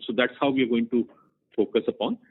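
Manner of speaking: normal talking voice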